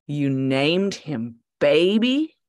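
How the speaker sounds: guard mocking the dog's name; incredulous scorn. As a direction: drag out Baby with scorn. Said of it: "His voice radiated incredulous scorn".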